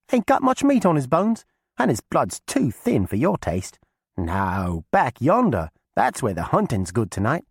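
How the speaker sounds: put-on high, loud girl's call; young girl voice. A narrator's reading. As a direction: call out eagerly to old cousin. Alice persuades the witch.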